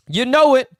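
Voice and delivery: high, loud hype shout; hyped. Real, not acted. Host celebrates again, loud excited shout. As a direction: yell it again in triumph.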